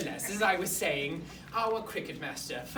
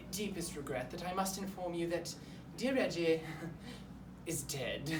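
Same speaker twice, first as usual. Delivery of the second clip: lightly put-on formal headmaster breaking bad news; stiff, wordy school principal; awkward headmaster; 3 dB louder than usual. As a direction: play a pompous headmaster explaining himself to parents. Headmaster explains pupil's death to parents.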